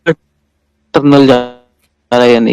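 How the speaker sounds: garbled, stuttering connection; crackly cordless phone. Real, not acted. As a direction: voice cutting out on the call. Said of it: "आपकी आवाज cut रही है।".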